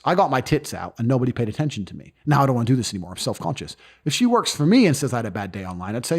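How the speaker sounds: ordinary talk, nothing marked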